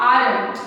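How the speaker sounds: 'aren't' as one joined word; are and not merged into aren't; aren't pronounced contracted. Shown as a demonstration. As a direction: model the contraction aren't clearly. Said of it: "तो इसका pronunciation".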